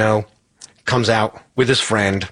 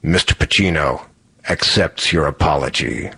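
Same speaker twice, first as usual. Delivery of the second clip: haughty friend; 6 semitones lower than usual. Retold or imitated. Friend speaks for silent Pacino.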